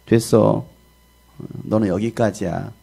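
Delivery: a hint of God's slow, calm verdict; lightly voiced God, unhurried; God speaking. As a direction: pronounce it slowly, with quiet finality. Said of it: "하나님은 뭐라고 말씀하십니까".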